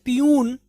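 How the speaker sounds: पियून with a long "oo" in the second syllable; common mispronunciation. Shown as a demonstration. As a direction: say पियून as "pee-YOON". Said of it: "हम लोग पढ़ते हैं". (पियून को लंबे "ऊ" के साथ)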